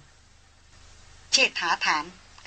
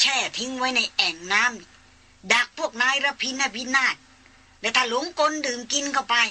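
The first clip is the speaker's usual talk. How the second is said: put-on old hunter; 3 semitones higher than usual. Old hunter explains the elephant trap.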